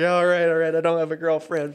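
loud, laughing protest; Dutch-free, giggling denial. Retold or imitated. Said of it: "me and him just started dying laughing".

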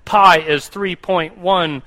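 slow, careful recital of digits; reciting pi proudly, word by word; mock student reciting. Student showing off to the calculus class, slow proud recital. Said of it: "you got in front of your calculus class and you said".

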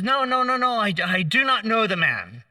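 mock-panicked Peter pleading innocence; panicked denial. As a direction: deny it in a rush of fear.

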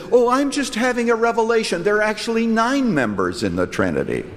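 false prophet. Retold or imitated. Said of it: "Another false prophet on one occasion said".

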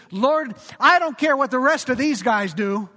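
a swaggering fisherman's loud oath; blustery boast. Retold or imitated. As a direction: puff up and promise too much, loudly. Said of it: "in his typical blustery fashion".

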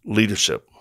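breathy dramatic whisper of Leadership; hushed, dramatic emphasis; whispered word. Shown as a demonstration. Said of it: "it was on leadership".

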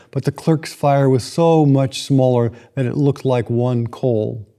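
measured storybook reading; unhurried storyteller reading aloud; story narration. A narrator's reading. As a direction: read it like a Christmas tale by the fire. Reads A Christmas Carol passage.

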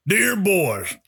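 put-on high, wavering old warden reading his letter. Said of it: "I'll try to do the warden voice".

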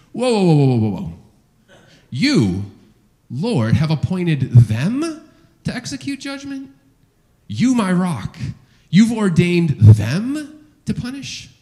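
as if he can't believe what God just said; stunned disbelief. Retold or imitated. Preacher voicing Habakkuk's shocked protest to God. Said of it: "you can almost kinda hear the tone in his voice".

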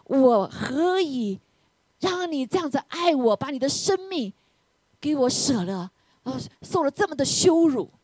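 imploring, amazed appeal; deeply moved. Retold or imitated. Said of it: "突然圣灵感动我".

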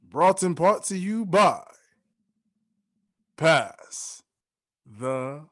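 deep booming show announcer. Acted. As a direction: announce it like a broadcast. Podcast intro announcement.

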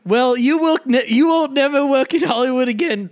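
hammed-up blustering British actor; Kenneth Branagh. Actor threatens podcaster's career, blustering British gent voice. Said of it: "a wimpy little British gent".

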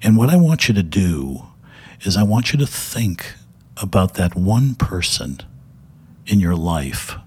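a light hint of Mister Rogers, unhurried and calm; Fred Rogers. Mister Rogers addressing TV executives, lightly voiced gentle calm. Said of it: "he starts talking like Mister Rogers".

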